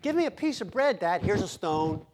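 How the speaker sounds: a lightly voiced child asking his dad for bread; child asking, father mocking. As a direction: play the kid begging bread and the dad's cruel answer. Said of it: "You don't".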